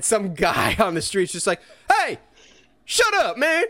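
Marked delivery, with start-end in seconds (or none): 1.9-3.6 high, louder mock yell of a rude New Yorker. A passer-by heckling Spider-Man's woo, mock New Yorker yell. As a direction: bark it back like an annoyed guy on the street. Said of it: "somebody yells back in, like, typical New Yorker fashion".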